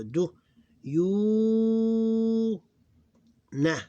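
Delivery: "do, you, na" with a long, high "you"; three separate beats, the middle one held loudly; three syllables. Shown as a demonstration. Teacher counting three syllables for students, extended middle syllable. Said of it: "three syllables".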